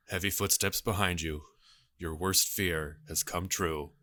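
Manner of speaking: measured, mock-ominous scene setting; suspenseful story narration. Podcaster painting a rainy road-trip picture for colleagues, mock-suspense narration. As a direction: narrate a spooky tale in deliberate phrases with pauses.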